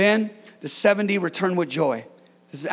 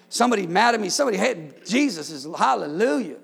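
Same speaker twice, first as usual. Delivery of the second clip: praying aloud in praise, fervent; spontaneous worship. Acted. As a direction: lift up quick praises to God. Pastor breaks into live worship.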